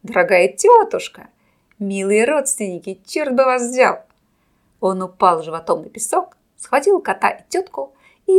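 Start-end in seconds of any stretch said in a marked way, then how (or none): 0.0-4.0 loud showman over a roaring crowd; booming circus ringmaster. A narrator's reading. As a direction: announce it loudly, like a ringmaster. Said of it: "закричал хозяин".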